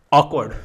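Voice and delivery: ऑकवर्ड said clearly as "ऑक-वर्ड", the r left silent; pronunciation demo. Shown as a demonstration. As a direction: model the word ऑकवर्ड for students, r dropped. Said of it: "ये इसकी pronunciation है ऑकवर्ड". (ऑकवर्ड को बिना आर की आवाज़ के, साफ़ बोलकर दिखाना)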